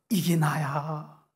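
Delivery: very slow, weighty declaration; God revealing himself, slow and grave; slow solemn reveal. Acted. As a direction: lay each word down slowly. God's self-revelation repeated.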